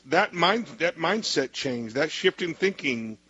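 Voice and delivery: slow, deliberate phrasing; slow down and let each phrase land; measured, spelling out the key idea; slowed down for emphasis. Real, not acted. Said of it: "deserves to slow down a little bit".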